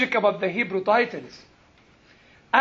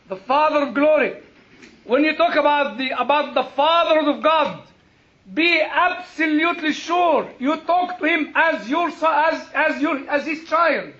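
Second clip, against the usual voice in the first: raised, emphatic sermon delivery; fervent pulpit exhortation; impassioned preaching; 6 semitones higher, 4 dB louder than usual. Real, not acted. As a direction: urge the congregation earnestly. Preaches at full force.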